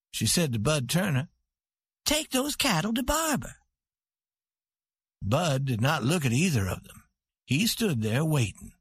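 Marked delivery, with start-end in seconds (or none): 2.1-3.6 higher, proud woman giving an order; commanding queen. A narrator's reading. Santa telling Bud where the cattle go, commanding.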